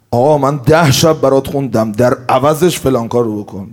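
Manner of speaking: a hint of an entitled servant; demanding mourner. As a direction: insist on your wages like a worker. Mourner demanding payment for service.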